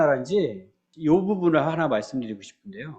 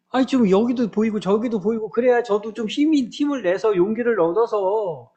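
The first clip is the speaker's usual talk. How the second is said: higher-pitched, mildly exasperated complaint to God; upset prophet; 4 semitones higher than usual. Acted. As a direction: act out a frustrated prophet's plaint. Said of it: "그렇게 속상했던 거예요". (속상해서 하소연하는 선지자 흉내)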